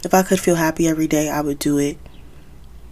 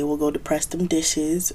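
put-on Jamaican accent; 4 dB quieter than usual. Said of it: "Do not call me for my fake Jamaican accent".

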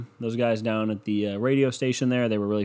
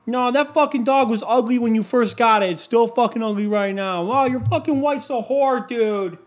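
high, strained mock bickering; much higher, hammed-up drunken insults; mock drunk family yelling; 11 semitones higher, 5 dB louder than usual. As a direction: lampoon relatives sniping at the holiday table. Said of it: "yell at each other".

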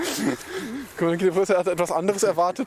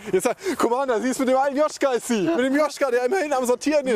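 excited gossip; 5 semitones higher than usual. Acted.

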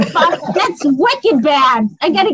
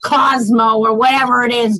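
emphatic mock warning; 2 semitones lower than usual. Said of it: "I'm like".

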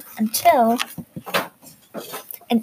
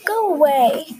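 order; 4 semitones higher than usual. Acted. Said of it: "Ellie ordered".

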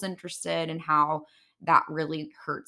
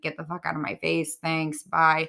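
monotone. Retold or imitated. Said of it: "like, monotone".

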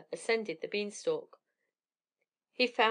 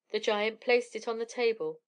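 ordinary delivery

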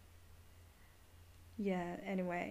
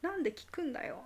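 mock angry question; 6 semitones higher, much faster than usual. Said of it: "お、怒ってる".

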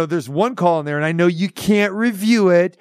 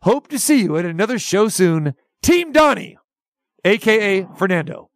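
press release read. Acted. Host reading a cancellation notice to the caller, formal read. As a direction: read it out like an official statement.

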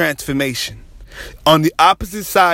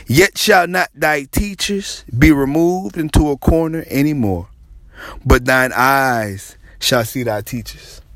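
scripture reading. Shown as a demonstration. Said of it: "he led me to Isaiah thirty".

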